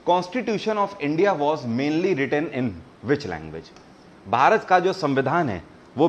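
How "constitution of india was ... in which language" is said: reading the question very slowly, word by word; slow quiz read. Shown as a demonstration. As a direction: spell out the question slowly for the class. Quiz host reads question aloud. (प्रश्न को बहुत धीरे-धीरे पढ़ना)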